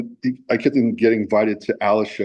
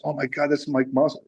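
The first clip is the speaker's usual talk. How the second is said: emotional disbelief; 5 semitones higher than usual. Retold or imitated. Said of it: "he got emotional".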